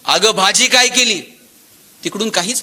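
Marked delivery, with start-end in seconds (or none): 0.0-1.2 calling out to the wife from the door; raised voice, a mild call across the house; आवाज देणे. Retold or imitated. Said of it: "यानं दारातूनच आवाज दिला". (हाक मारत)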